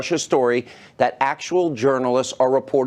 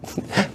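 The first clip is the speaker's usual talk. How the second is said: short, quiet chuckle; brief scoffing laugh before carrying on; amused laugh; 4 dB quieter than usual. Real, not acted. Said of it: "I've gotta laugh".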